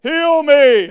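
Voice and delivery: long stretched high shout for mercy; desperate shout. Acted. Blind Bartimaeus shouting over the crowd, loud drawn-out plea. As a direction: scream over the crowd, slowly. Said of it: "didn't slow down at all".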